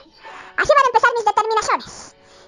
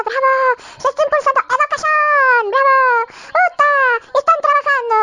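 mock cheering citizen; 4 semitones higher than usual. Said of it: "Bueno, sería, ¿no ve?".

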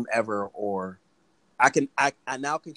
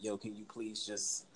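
gentle request. Retold or imitated. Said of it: "I'm like".

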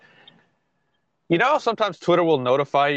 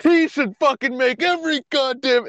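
angry fan rant; 10 semitones higher than usual. Retold or imitated. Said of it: "the other camp was".

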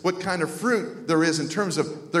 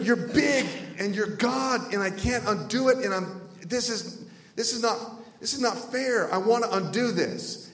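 higher, halting complaint; pleading protest; 5 semitones higher than usual. Retold or imitated. Young man arguing with God over his calling, pleading protest. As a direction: stammer out a helpless objection.

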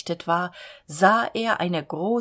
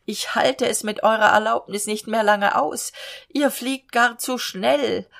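groaning; 4 semitones higher, 4 dB louder than usual. Acted. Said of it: "ächzte".

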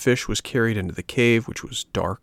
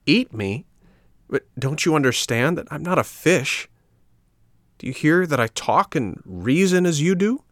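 alarmed puppet; 7 semitones higher than usual. A narrator's reading.

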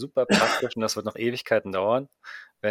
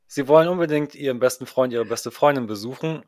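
commercial voice. Pretend. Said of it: "klang wie der Anfang eines Werbespots".

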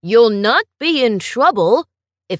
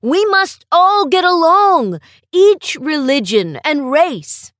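louder, determined principal laying down the law; firm vow; 5 dB louder than usual. Acted. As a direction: speak like a principal who will act. Principal vows firm action.

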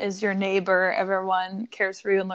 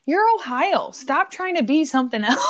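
higher-pitched exasperated telling-off; mock scolding; 4 semitones higher than usual. Traveller telling Ohio off for its town names, mock scolding. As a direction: put the state in its place. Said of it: "I'm like".

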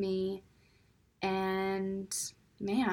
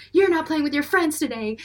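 louder, firm mock ruling; stern mom; 6 semitones higher, 8 dB louder than usual. Scene: mom punishing her five-year-old son, firm. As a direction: lay down the punishment firmly. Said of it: "I'll punish him".

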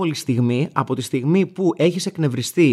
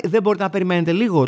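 mock whiny woman; 2 semitones higher than usual. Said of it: "Κάνει".

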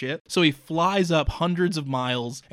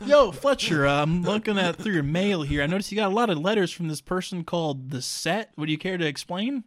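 mock interrogation; 4 semitones higher than usual. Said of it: "playful interrogation".

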